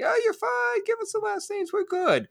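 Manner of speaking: squeaky high mock listener; high silly imitation voice.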